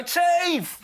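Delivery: high yelled single word; mock scream. Fans yelling at comedian in the street, high mock yell. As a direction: yell it at him like a fan spotting him. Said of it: "they would scream it at me".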